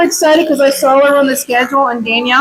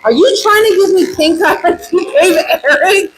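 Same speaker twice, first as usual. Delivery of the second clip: laughing accusation; 6 semitones higher than usual. Retold or imitated. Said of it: "I'm like".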